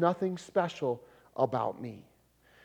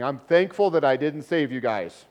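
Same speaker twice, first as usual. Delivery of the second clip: mock absurd Paul; 7 dB louder than usual. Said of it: "do you think Paul would be saying".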